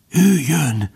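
high, hushed-style alarm; urgent warning. A narrator's reading. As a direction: warn urgently, voice pitched high. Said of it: "suttogta sürgetve". (sürgetve, magas hangon)

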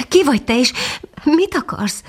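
high, hesitant question; a timid little dog asking the shadow. Acted. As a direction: ask shyly, unsure who is there. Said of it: "kérdezte bátortalanul".

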